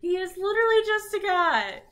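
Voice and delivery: loud, high sassy shriek; sassy, high-pitched squeal. Acted. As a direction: squeal it loudly, full of sass. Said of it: "She sounds real sassy".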